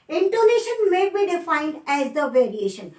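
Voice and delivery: very slow, word by word dictation. Shown as a demonstration. Teacher dictating a definition to students, very slow. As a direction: spell out the definition slowly so students can write.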